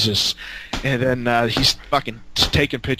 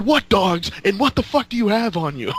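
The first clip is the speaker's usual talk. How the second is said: higher, alarmed questions; panicked demand; 8 semitones higher than usual. Retold or imitated. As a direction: panic as the cops close in. Panic as police dogs come.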